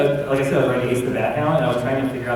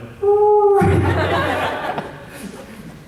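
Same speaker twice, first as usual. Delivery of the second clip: imitated dog noise; 6 dB louder than usual. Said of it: "and so the dog".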